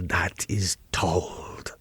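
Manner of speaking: lets the last words die to a breath; fading whisper. Acted. Count ending his boast to the young guest, whispered. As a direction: whisper the ending away like an old tale.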